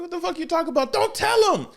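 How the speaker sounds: high, frantic protest; panicked hush-up. Retold or imitated. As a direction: blurt it up high to shut him up. Ninja panicking to hush secret.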